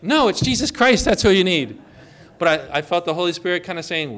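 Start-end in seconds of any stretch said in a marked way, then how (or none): 0.0-1.8 mock blunt retort. Preacher imitating his usual blunt correction, louder. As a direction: push it like a preacher cutting in. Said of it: "normally I'd be like".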